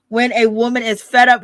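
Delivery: lightly imitated R&B singer; a hint of an R&B star's delivery; R. Kelly voice. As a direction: toss off a light singer impression. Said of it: "In my R. Kelly voice".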